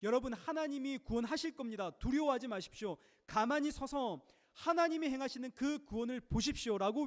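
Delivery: rally the crowd with bold assurance; bold declaration. Retold or imitated. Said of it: "담대하게 외쳤습니다". (백성 앞에서 담대하게 외치듯)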